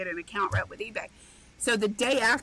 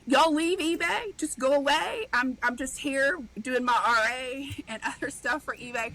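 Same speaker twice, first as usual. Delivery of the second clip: mock brush-off to eBay doubters; smug dismissal; 3 semitones higher than usual. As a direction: wave them off smugly. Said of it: "So I'm like".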